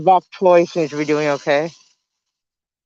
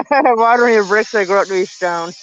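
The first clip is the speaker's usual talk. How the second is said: laughing; 5 semitones higher, 4 dB louder than usual. Real, not acted. Jokes laughing about watering bricks.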